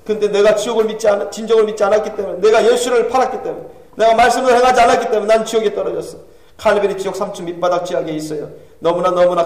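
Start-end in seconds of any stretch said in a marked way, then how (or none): 0.0-6.2 lightly voiced remorseful sinner in hell; a hint of anguished self-accusation; Calvin's confession. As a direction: confess with mounting intensity.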